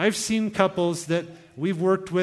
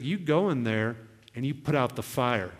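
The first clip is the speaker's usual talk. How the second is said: low, measured instruction; God's calm command; 4 semitones lower than usual. Retold or imitated. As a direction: quote God's directive calmly. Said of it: "And he was like".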